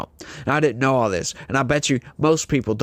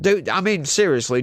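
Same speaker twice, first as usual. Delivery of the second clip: ordinary talk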